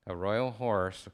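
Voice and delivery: ordinary talk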